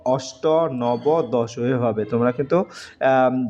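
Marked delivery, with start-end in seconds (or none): 0.0-1.6 অষ্ট and নব said slowly; teacher drills the numbers; slow numeral demo. Shown as a demonstration. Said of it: "সাত, সপ্ত".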